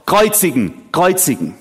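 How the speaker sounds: emphatic, punched mob chant, short of a scream; crowd shouting. Acted. Preacher voices mob shouting at Pilatus, insistent shout. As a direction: call out the verdict like an insistent crowd. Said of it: "sie schrien noch lauter".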